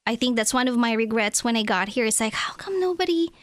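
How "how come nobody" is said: hushed rhetorical whisper. Retold or imitated. Immigrant recalling no one guided her, whispered. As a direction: breathe it out as a private regret. Regret on arrival, rhetorical aside.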